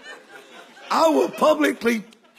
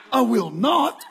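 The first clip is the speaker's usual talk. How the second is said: laughing refusal. Retold or imitated. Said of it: "I said".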